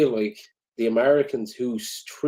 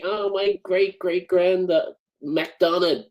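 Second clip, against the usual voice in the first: slow, somewhat higher gushing parody; mock proud American; 6 semitones higher, slower than usual. Mocking an American bragging about an Irish ancestor, slow gushing parody. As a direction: drag out the proud boast.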